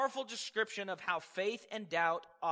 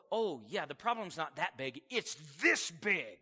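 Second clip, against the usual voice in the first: lower, slyly exaggerating; lightly voiced enemy; 5 semitones lower than usual. Preacher voices the enemy magnifying problems, low sly. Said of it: "he'll go".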